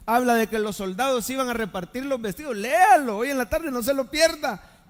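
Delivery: exhortar con voz más alta y fuerte; prédica enérgica. Acted. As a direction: anima con ímpetu a la congregación. Preacher urges the congregation. (exhortación encendida)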